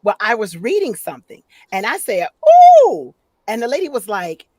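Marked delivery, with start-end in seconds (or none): 2.8-3.2 long, high swooping sound; really high exclamation. Retold or imitated. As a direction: send your voice soaring up. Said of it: "your voice went up really high".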